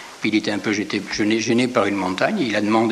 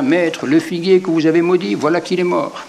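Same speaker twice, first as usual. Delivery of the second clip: higher and louder, Peter calling out in amazement; excited cry; 6 semitones higher, 5 dB louder than usual. A narrator's reading. Peter crying out to his master about the fig tree. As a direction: exclaim it like a startled disciple. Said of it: "s'écria".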